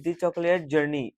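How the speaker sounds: slow, careful reading of the title; deliberate classroom read-aloud. Shown as a demonstration. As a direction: read it slowly for the students. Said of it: "teacher reads the title aloud".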